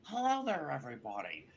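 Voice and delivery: lightly voiced old-time baseball announcer; a hammy broadcaster impression; Harry Caray. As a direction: greet the crowd like a veteran sportscaster. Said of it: "This is Harry Carey".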